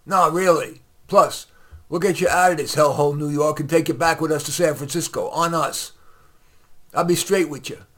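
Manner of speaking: loud, high, pushy hustler voice; slick salesman. Acted. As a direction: sell it like a smooth con man. Slick rich man pitches a scam.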